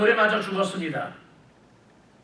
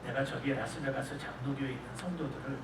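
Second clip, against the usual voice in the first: softer, intimate voice of God; God's voice; 8 semitones lower, 16 dB quieter than usual. Retold or imitated. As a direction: lower and hushed, like God confiding to his son. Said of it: "하나님이 뭐라 그러신가 하면". (아들에게 속삭이듯 말하는 하나님, 부드럽고 조용하게)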